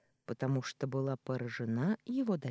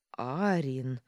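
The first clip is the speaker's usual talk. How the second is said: roared name; 4 dB louder than usual. Acted. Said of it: "взревел Джелла".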